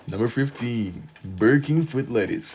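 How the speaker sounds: a fair mock of the Burger King foot lettuce narrator; Number 15 meme voice. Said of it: "That's how he would talk".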